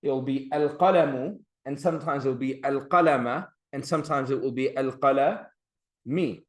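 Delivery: al-qalamu, al-qalama, al-qalami with the final vowel clearly said; case endings. Shown as a demonstration. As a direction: lean on each changing last vowel. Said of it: "for example".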